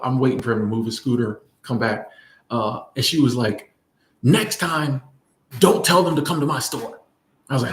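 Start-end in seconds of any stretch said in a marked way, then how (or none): 4.2-7.0 lightly imitating an assertive older shop owner; slightly raised, firm but not angry. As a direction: tell them off firmly, without anger. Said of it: "it was an assertive tone".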